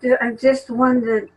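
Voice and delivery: speaking through a head cold; nose blocked up with a cold; stuffy nose. Real, not acted. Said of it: "sorry, I have a cold".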